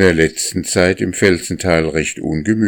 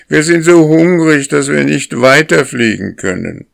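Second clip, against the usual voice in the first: much higher, loud hungry wail; goslings crying out; 10 semitones higher, 6 dB louder than usual. A narrator's reading. Hungry goslings crying to the lead goose, high and loud. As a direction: shout it up high like starving young geese. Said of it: "schrien die Jungen".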